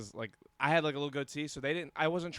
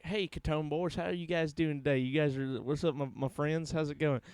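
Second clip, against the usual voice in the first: put-on country accent. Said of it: "very country".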